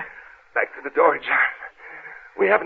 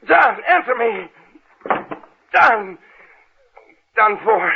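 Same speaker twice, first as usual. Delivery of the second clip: frantic calling; 5 semitones higher, 5 dB louder, much slower than usual. Acted. Servant silent in sealed room.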